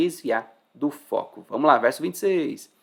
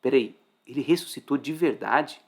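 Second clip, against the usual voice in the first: understated amazed double-take; hushed wonder, checking it is true; astonishment. Shown as a demonstration. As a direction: ask it in mild disbelief. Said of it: "com espanto, fala assim".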